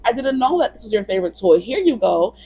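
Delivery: high cartoon kitten apologizing; Katarina. Cat apologizing to Daniel for taking toy, high voice. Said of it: "And then Katarina's like".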